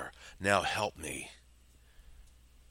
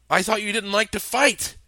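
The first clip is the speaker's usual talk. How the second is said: shocked disbelief; 13 semitones higher, 8 dB louder than usual. Acted. Hostage disbelieving.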